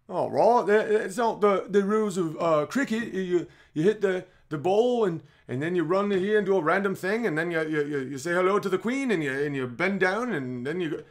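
mock British. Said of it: "be like".

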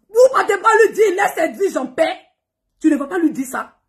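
high loud fast yell with a laugh; bitter laughing outburst; laughing shout. Real, not acted. Scolding followers, laughing bitterly.

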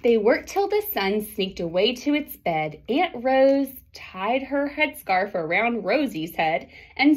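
lively picture-book read-aloud; reading to children. A narrator's reading. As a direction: read the rhyming story to the class.

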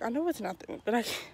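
panting out of breath from walking. Real, not acted. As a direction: talk while out of breath. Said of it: "I'm really out of breath".

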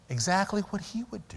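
soft whispered point. Real, not acted. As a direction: lean in and whisper it. Preacher drops to hushed point.

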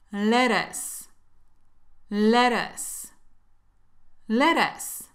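"Lettuce" with the tt as a light tap, le-rus; very soft T. Shown as a demonstration. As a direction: say "Lettuce" with a gentle flapped T. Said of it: "se pronuncian muy suavecito".

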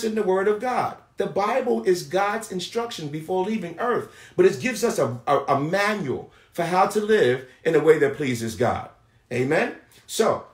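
emphatic preacher's delivery with stretched key words; preaching. Acted. Preacher assuring the people God shows mercy, emphatic preaching. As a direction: preach it firmly, punching key phrases.

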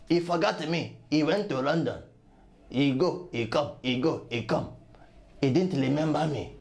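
low, self-pitying comic grievance; mock tearful lament. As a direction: sink low into a hammed-up sob story. Trickster laments being forgotten.

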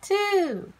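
usual speaking voice

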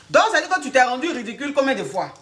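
mildly emphatic rebuke as a question; exasperated scolding. Acted. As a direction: take the client to task. Coach scolds client for humiliating herself.

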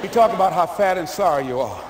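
low and sneaky, winding Larry up; sly coach. Retold or imitated. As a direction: coach egging the lineman on, hushed and laughing.

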